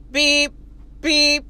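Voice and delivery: short, level electronic-style beeps; imitated detector beep. Man walks into metal detector, imitated beeps. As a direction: mimic a metal detector going off.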